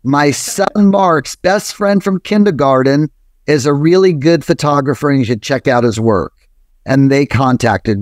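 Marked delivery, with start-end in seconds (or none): 0.0-6.3 put-on old lady Jewish New Jersey accent. Mother tells the museum about her son's friend, light Jewish New Jersey accent. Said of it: "old lady Jewish New Jersey accent".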